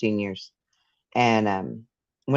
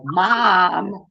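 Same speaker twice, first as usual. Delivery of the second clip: put-on louder, higher call of a kid for mom; imitated son; 5 semitones higher, 5 dB louder than usual. Mom imitates how her son calls her now, plain kid's call. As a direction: imitate your boy calling out for you. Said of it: "now he's just like".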